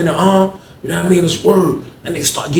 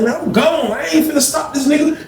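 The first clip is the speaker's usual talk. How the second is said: mock shout; 11 semitones higher than usual. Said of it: "I was like".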